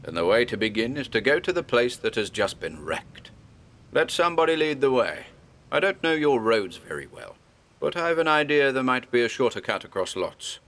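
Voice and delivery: lightly voiced old scholar, grave and urging; a hint of a learned old man steeling frightened farmers; Armitage rallying the men. Old doctor rousing the villagers to hunt the beast, lightly voiced and earnest.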